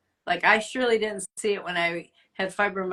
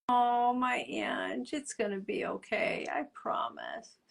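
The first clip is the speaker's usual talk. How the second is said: tender God voice; 4 semitones higher, 4 dB quieter than usual. Retold or imitated. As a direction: comfort her like a parent stroking hair. God voiced comforting the listener.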